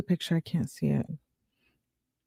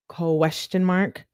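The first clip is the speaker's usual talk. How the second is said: "question mark" slowly stretched out; slow, over-enunciated "question mark"; drawn-out repeat; slower than usual. Shown as a demonstration. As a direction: draw out each syllable of "question mark". Repeats punctuation slowly for effect.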